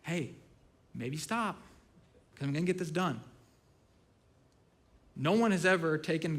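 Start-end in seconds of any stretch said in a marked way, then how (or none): 0.0-3.2 soft, coaxing words with pauses between; quiet, patient persuasion; gentle wooing. Retold or imitated. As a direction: softly talk a child out of fighting. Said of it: "he's wooing it too".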